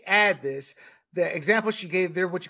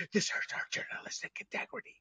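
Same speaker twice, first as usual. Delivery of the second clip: mock whisper; 15 dB quieter than usual. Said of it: "some men were like".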